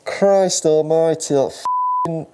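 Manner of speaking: loud, slow exasperated curse; frustrated outburst. Real, not acted. Outburst at mishap.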